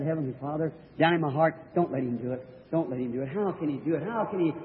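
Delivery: hushed desperate prayer. Retold or imitated. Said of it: "I said".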